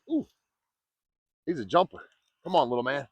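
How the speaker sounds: coaxing the fish in, eager; urging a fish to come in; excited. Real, not acted. Fighting a jumping fish.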